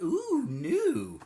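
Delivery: high, breathless mock wonder; a high, impressed coo at something shiny; mock dazzled ooh. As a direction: squeal it like a dazzled fish. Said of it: "you were like".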